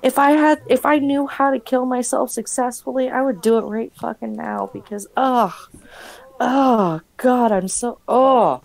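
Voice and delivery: gagging with disgust; dry heaving. Acted. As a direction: retch and groan in disgust. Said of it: "same kind of gag reflex for me".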